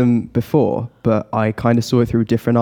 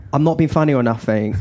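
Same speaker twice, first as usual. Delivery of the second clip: Essex accent. Shown as a demonstration. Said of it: "it does sound a little bit like this".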